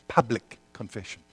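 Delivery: quiet, weighted Public; stress on public. Shown as a demonstration. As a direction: press down on Public. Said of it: "I'm emphasizing the word public".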